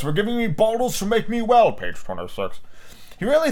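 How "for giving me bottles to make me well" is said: put-on child voice. A narrator's reading. Child character voiced in story.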